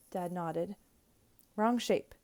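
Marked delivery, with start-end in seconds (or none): 1.6-2.1 loud, eager call; shouting. Acted. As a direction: call out the answer loudly. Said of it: "I shouted".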